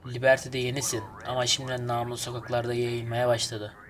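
mild mob boss voice on the line; lightly voiced gang caller. Reads mission caller's lines.

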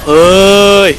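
high, loud startled "เฮ้ย"; startled shout. Real, not acted. Gamer caught off guard, shouting in alarm. Sudden game moment.

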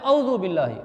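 औज़ु बिल्लाहि with au and no ain; common mispronunciation. Retold or imitated. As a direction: run औज़ु बिल्लाहि quickly as au-zu. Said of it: "हमारे यहाँ लोग पढ़ते हैं". (औज़ु बिल्लाहि, आइन के बिना)

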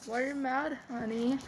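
soft, placating play voice; gentle, coaxing question; pretend soothing. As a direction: answer the tantrum very softly. Pretend soothing after angry outburst.

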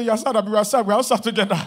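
droning sad voice slipping into a laugh; half-laughing mock sadness; mock gloomy agreement. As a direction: play the miserable friend, then crack up. Mock reply of sad person.

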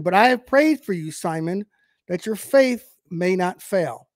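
lifted, measured Bible reading; preacher reading the verse aloud; scripture reading. Acted.

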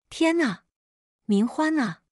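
high, wailing cry for her dead daughter; a mother's anguished cry, voice leaping up; wailing old mother. A narrator's reading. Grieving mother cries out her daughter's name, wailing. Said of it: "老太太又哭闹起来".

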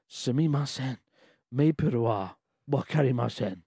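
confused. Acted. Diner apologising to staff about maple syrup, acted confusion. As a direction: stumble through it, acting confused. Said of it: "Racked with confusion".

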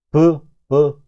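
브 as a short schwa sound, repeated; reduced schwa syllable. Shown as a demonstration. Teacher shows students the weakened vowel, reduced schwa syllable. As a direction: isolate 브 as the weak, unstressed first syllable. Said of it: "강세가 없으면 죽으니까 비하인드가 아니라".

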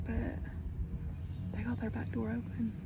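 whispering on the phone. Real, not acted. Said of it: "I feel like I have to whisper".

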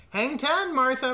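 high, loud call across the beach; shouting. A narrator's reading. Farmer calls to his cow at the beach, shouting. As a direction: shout it out with gusto. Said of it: "Rob shouted".

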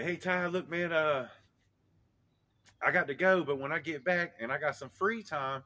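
put-on high, loud, addressing a little kid; retold talk to child. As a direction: re-enact explaining to a small child.

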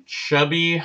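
words mushed by a mouthful of marshmallows; mouth full. Real, not acted. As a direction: talk through a mouth stuffed fuller and fuller. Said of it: "I gotta see how many marshmallows I can stick in my mouth".

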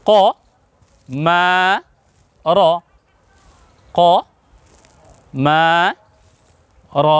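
"ক", "মা", "র" separately, with long pauses; one sound at a time. Shown as a demonstration. Teacher having viewers follow each sound, separated syllables. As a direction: spell out "ক মা র" sound by sound. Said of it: "এককটাকেই উচ্চারণ করতে হবে".

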